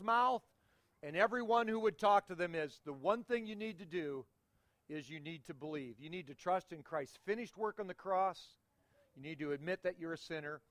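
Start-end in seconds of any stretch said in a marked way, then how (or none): 2.8-10.6 softer, earnest telling of the one thing needed; hushed sincere appeal; earnest plea. Acted. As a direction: lean in and plead gently. Pleading answer to seekers.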